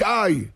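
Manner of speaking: short high "ay!"; crying out. Retold or imitated. King's son cries out to his father, short pained cry. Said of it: "צועק".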